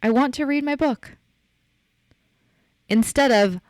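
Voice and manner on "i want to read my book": "I want to read my book" said plainly and firmly, pitched higher, "want" stressed; owning it. Shown as a demonstration. Podcaster demonstrating the right way, confident and direct. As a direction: state it with no apology.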